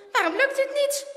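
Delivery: high, loud worried question; alarmed, frustrated boy; rising panic. A narrator's reading. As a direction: struggle and fret aloud. Boy stuck, starts to panic.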